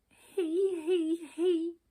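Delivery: high, joyless forced giggle; miserable giggle. A narrator's reading. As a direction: try to giggle and fail. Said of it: "she said miserably".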